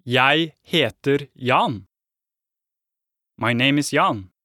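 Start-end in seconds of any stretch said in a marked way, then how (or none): 0.0-1.9 over enunciating. Shown as a demonstration. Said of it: "I should answer this way".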